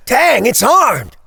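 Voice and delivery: high, loud and slow alarmed cry; boy yelling at the sickle; alarmed shout. Acted. Boy sees scarecrow's sickle.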